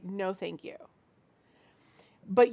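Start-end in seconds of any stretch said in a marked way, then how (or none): 0.0-0.8 polite refusal. Retold or imitated. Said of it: "and I say".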